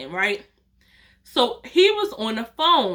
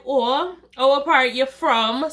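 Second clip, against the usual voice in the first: put-on Jamaican accent; 2 semitones higher, slower than usual. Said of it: "I'm just talking".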